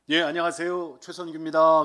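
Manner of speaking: loud, eager hello at the door; loud greeting. Retold or imitated. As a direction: call out your name to the future in-laws. 문 앞에서 큰 소리로 인사. (문 앞에서 장모님께 크게 외치는 인사)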